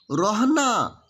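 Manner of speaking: रोहना said with a full final a, Ro-ha-na; रोहना, the name stretched with an added a; Khortha pronunciation. Shown as a demonstration. Teacher showing the Khortha form of Rohan. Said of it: "तो खौरठा में क्या हो जाएगा?".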